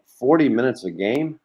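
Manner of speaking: incredulous rise on forty; surprised question. Retold or imitated. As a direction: echo it back in mild disbelief. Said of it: "my mom's like".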